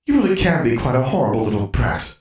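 put-on cracked mirror scolding the girl who hit it, brittle. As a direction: snap at her, hurt and prim. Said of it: "sounding brittle".

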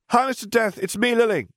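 put-on very high, bright child's call; a delighted child greeting an old friend; excited little girl. A narrator's reading. Girl running to Death, high excited call. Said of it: "she said as she ran towards him".

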